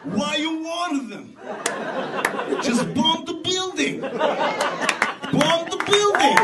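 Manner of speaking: laughing through it, slowing right down on the last words; laughing exasperation. Acted. Comedian laughing at Israel warning the enemy, slow and amused. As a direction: laugh at the absurdity and drag it out.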